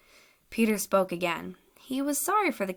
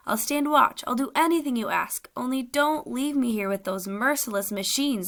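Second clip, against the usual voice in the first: higher, pleading voice; begging; 3 semitones higher than usual. Acted. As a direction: beg for passage, rising on stand watch. Captive begs to be taken.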